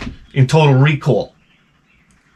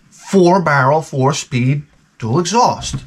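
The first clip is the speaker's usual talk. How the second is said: higher, heated spelling out of each part; indignant listing; 4 semitones higher, slower than usual. Retold or imitated. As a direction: rattle it off like an offended gearhead. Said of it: "he goes off the deep end".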